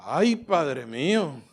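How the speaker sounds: slow, moved cry; emotional sigh. Real, not acted. Pastor overcome, crying out to God slowly. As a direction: let the feeling break through slowly. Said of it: "me emociono".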